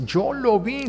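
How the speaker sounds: an accuser insisting on what he saw; accusing claim. Retold or imitated. Quoted accuser.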